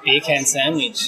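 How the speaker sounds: slow, word by word; slow careful. Shown as a demonstration. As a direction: say each word slowly and separately. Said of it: "So say".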